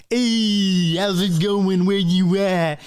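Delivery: high, cheery little Pumice voice; a tiny creature greeting everyone brightly; high chirpy creature, loud and friendly. Acted.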